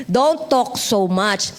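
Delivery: Don't talk so much, slow and weighty; slow emphatic repeat. Shown as a demonstration. (mabagal na pag-uulit)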